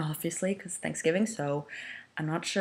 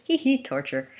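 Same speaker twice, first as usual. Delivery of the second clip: mock giggling villain; 8 semitones higher than usual. Mock giggle as Wild Rider.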